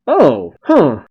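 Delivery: surprised. Real, not acted. Sudden reaction to scene.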